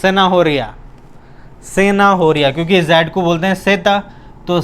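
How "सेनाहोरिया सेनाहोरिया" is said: सेनाहोरिया starting with s, not z; zanahoria with s. Shown as a demonstration. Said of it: "जेड नहीं बोलेंगे".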